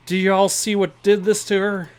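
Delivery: hammed-up Southern accent; Southern farmer asks in a bad Southern accent. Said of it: "a southern accent, and a bad one to boot".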